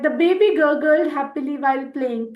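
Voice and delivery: very slow, word by word; slow dictation. Shown as a demonstration. Teacher reading an example to Hindi learners, very slow. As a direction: read it slowly for learners to follow.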